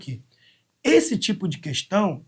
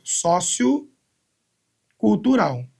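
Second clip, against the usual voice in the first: sociocultural stretched out very slowly; teacher giving a slow example; drawn-out example word; 2 semitones higher, much slower than usual. Shown as a demonstration. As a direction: lay out sociocultural slowly so the parts are heard. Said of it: "Por exemplo".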